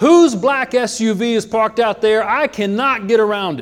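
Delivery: very big, booming, loud, high-pitched voice. Retelling a man who walked in and spoke to everyone seated, very big voice. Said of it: "he walks in with a very big voice".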